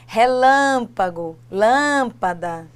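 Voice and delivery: "Relâmpago" and "lâmpada" said slowly, the stressed "lâm" clear; slow examples. Shown as a demonstration. Teacher reading out proparoxytone examples. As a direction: draw out each example. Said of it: "continuam sendo acentuadas".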